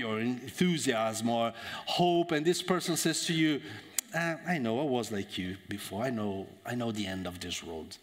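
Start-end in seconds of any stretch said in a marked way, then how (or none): 4.2-8.0 low, subdued, sinking voice; world-weary discouragement. Acted. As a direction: let it sink like someone who's seen it all. Discouraged person dampens someone's enthusiasm.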